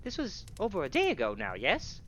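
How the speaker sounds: high-pitched tavern keeper voice; flustered tavern keeper. Acted. Game master voices tavern keeper.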